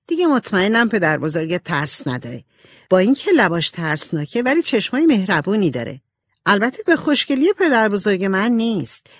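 lightly voiced frank, lively girl; animated, confident character voice, lightly played; outspoken Jo. Jo talks before the portrait. (صدای نمایشی سبکِ دختری رک و سرزنده)

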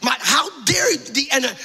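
mildly indignant retelling; indignant challenge, without raising the voice much; angry. Retold or imitated. Preacher retells his outrage at his daughter's illness, mildly angry. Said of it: "So I'm angry going".

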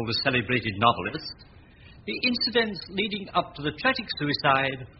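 reading the report aloud, a touch formal; newspaper read. Acted. Manservant reading the news report aloud to Temple, formal read. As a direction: read the paper out to the master.

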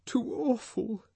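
high, shaken murmur; repeating in distress. A narrator's reading. Woman shaken after the whipping, high, dazed lament. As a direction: say it over to yourself, stunned. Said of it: "she kept repeating".

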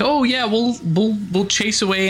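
put-on a light sweet old granny voice; nice grandma voice. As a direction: lightly imitate a kindly grandma. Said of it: "the nice grandma".

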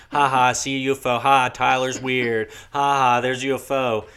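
mocking. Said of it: "everybody likes to play pranks with me".

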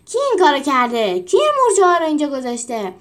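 loud, sharp furious questioning; angry demand. Acted. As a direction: demand an answer, outraged. Furious trainer demands who did it.

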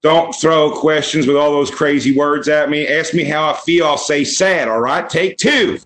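mock interviewee in Southern bumpkin accent. Kid dodging the interviewer's questions, Southern bumpkin accent. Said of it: "he had a fucking Southern bumpkin accent".

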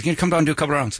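imitating an Irish boxing trainer's accent; brief them in a mock Irish lilt. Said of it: "I used to have an Irish boxing trainer".

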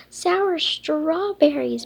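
slow, loud exclamation; drawn-out loud dismay; exclaiming. Acted. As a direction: cry it out in dismay. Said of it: "Berry exclaimed".

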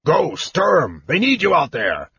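high-pitched distant holler; yelling from afar. Acted. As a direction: call out urgently across a distance. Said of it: "he heard Flint yelling loudly".

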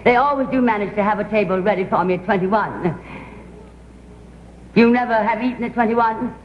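gushing, theatrical society-lady voice; posh grande dame. Acted. Society actress chattering to cafeteria staff, posh and gushing. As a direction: play a grand actress slumming it, all airs.

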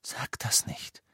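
slow, hushed whisper near tears; tearful whisper. A narrator's reading. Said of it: "flüsterte Hermine mit Tränen in den Augen". (geflüstert, den Tränen nah)

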